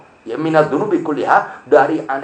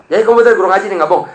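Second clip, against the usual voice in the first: louder, higher mock suspicion; half-acted policeman doubting him; suspicious cop; 6 semitones higher, 6 dB louder, much faster than usual. Officer asking if he's really a Quran teacher, suspicious.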